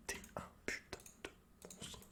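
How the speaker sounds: ordinary talk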